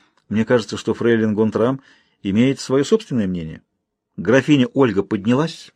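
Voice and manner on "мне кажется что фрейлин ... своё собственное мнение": ordinary delivery, nothing marked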